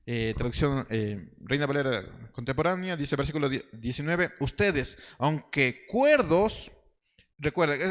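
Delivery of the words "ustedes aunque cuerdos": slow, drawn-out ironic quote, stretching cuerdos. Retold or imitated. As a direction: lean into the irony on cuerdos, slowly. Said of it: "está hablando de manera muy irónica Pablo". (irónico y lento, alargando cuerdos)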